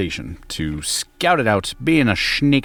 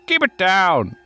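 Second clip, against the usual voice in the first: grumpy corpse shout; 11 semitones higher, slower than usual. Acted. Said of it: "you hear from inside a sarcophagus".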